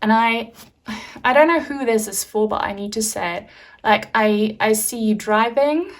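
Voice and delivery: ordinary talk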